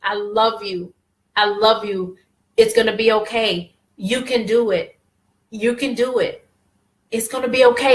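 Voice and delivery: low, tender affirmations to oneself; retold heartfelt comforting, short separate phrases; emotional self-reassurance. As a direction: gently reassure yourself, pitched low. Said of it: "it was very emotional".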